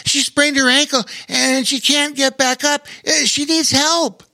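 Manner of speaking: put-on high, urgent breathless boy. A narrator's reading. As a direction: gasp it out in a rush. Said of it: "breathlessly exclaimed".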